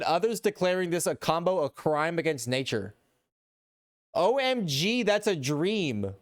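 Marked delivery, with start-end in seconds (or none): 4.1-6.1 badly faked British accent; British accent attempt. Streamer reads out a gushing comment in a failed British accent. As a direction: have a feeble go at a British accent. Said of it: "put on a British accent".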